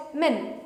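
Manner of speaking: min, the short sound of men. Shown as a demonstration. Teacher modelling min for learners. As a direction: say min with a short nasal vowel. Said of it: "So you call it min".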